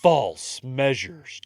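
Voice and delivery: "false measures" drawn out slowly; quoting the charge "false measures" slowly; slow quote. Retold or imitated.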